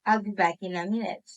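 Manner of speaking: quick statement with pitch falling to "minute". Shown as a demonstration. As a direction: drop the pitch on "minute" to sound final. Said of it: "For the statements".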